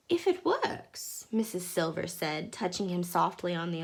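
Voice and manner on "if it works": lady's voice. Acted. Mrs Silver, high and slow.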